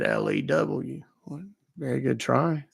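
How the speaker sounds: put-on old man Lou. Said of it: "He was questioning my voice".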